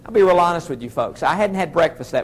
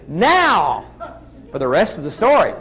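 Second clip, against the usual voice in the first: Paul Harvey. Acted. Speaker quoting a radio host's catchphrase, light impression. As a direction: hold "Now", pause, then deliver the catchphrase. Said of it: "as Paul Harvey loves to say".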